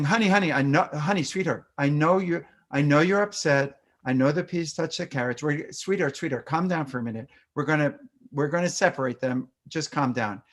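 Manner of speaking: put-on a mild soothing hush, talking the child down; gentle, a little dismissive calming tone; soothing parent. Shown as a demonstration. Parent hushing a child upset over peas, mildly soothing. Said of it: "not done in a way that feels respectful".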